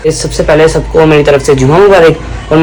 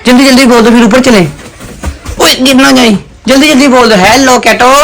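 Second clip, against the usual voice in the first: higher, urging the kitten on; coaxing pet talk; 5 semitones higher than usual. Real, not acted. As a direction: sweet-talk the cat into saying hello. Coaxing cat to say hello. (बिल्ली को प्यार से मनाते हुए)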